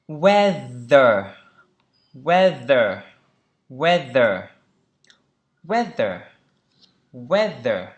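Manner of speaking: "weather" punched on WEA, falling on ther; teacher's emphatic drill of WEA-ther; first-syllable stress. Shown as a demonstration. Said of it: "Trọng âm đầu tiên".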